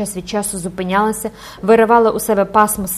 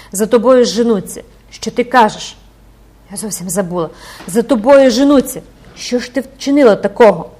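alarmed mother; 2 semitones higher, 8 dB louder than usual. Acted. Mother alarmed daughter pursued.

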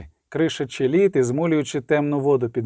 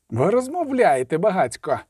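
mildly sharp, cutting rebuke; sharp retort; 3 semitones higher than usual. A narrator's reading. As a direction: cut the chatter off curtly. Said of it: "різко відрізав Рінс". (різко відрізати)

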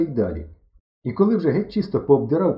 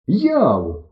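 loud, high hail; calling out; 4 semitones higher, 6 dB louder than usual. A narrator's reading. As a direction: holler for a friend. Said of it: "гукаю нарешті". (голосно гукає)

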